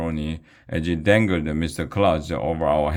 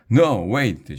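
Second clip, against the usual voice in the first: higher, raised call to stop; shouted stop; 5 semitones higher, 3 dB louder than usual. Acted. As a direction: stop the others before they throw. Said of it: "shouted Andrea".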